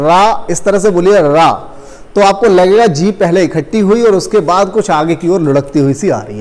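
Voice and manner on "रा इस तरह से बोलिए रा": रा stretched out slowly, syllable by syllable; slow motion. Shown as a demonstration. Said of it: "आप इसी समय रा बोलिए स्लो मोशन में".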